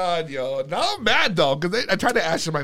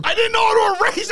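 high, loud defensive outburst; exasperated shout; 4 dB louder than usual. Real, not acted. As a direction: yell it in protest. Defending botched voicemail.

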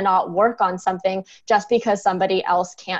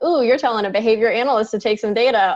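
quick, slightly raised mock-eager retort; playful challenge; 3 semitones higher than usual. Analyst imagining her reply to the rheumatologist, playfully keen. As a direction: relish the challenge, picking up speed.

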